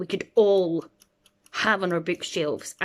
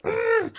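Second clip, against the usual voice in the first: a very high, sharp ugh of exasperation; high exasperated groan while waiting on him; frustrated groan. Retold or imitated. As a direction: squeal out your frustration at him dawdling. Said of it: "And I'm like".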